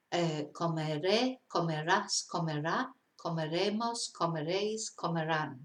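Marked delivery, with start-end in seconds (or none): 0.5-2.9 comeré, comerás, comerá, each stressed on its final syllable; stress on last syllable. Shown as a demonstration. Teacher reciting verb forms for learners, last syllables stressed. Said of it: "you're stressing on the last syllable".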